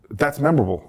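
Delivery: lightly imitated veteran comedian; half-managed impression of a comic; Colin impression. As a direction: have a go at mimicking the comedian. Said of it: "doing my Colin impression".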